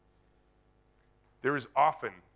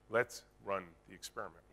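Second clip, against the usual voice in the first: gentle reassurance; 6 semitones lower, 7 dB quieter than usual. Retold or imitated. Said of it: "I trust you".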